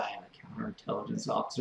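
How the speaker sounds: mock hushed voice, said very quietly. Teasing another speaker by repeating their words: imitating saying it very quietly. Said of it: "very quietly said".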